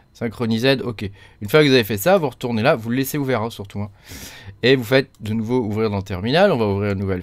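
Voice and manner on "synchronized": "Synchronisé" as English in French sounds, final d voiced; thick French accent. Real, not acted. Tutorial host repeats the screen's English message, French accent. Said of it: "avec mon super accent".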